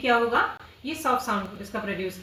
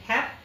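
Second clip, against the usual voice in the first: हैप said alone as the first syllable; syllable split. Shown as a demonstration. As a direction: break off cleanly after हैप. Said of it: "इसको एक बार में नहीं हुआ".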